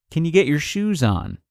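patiently asking again, voice settling down; patient repeat. Retold or imitated. Parent repeating the shoes request to child, patiently. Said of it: "so you patiently try again".

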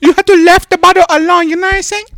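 put-on high, loud caricatured Hispanic accent; mock Hispanic accent. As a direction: squawk it in a hammed-up Hispanic accent. Joking put-on Hispanic accent bit.

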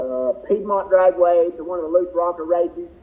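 talking with a mouthful of food; words round a bite of food; mouth full. Real, not acted. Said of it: "obviously I've got my mouth full here".

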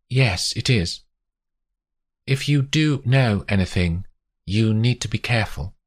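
lightly voiced woman giving a caution; warning investigator.

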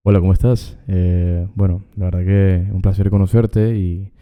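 seductive voice. Pretend. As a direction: try to sound seductive. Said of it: "Ponga su voz sed-, su-, seductora".

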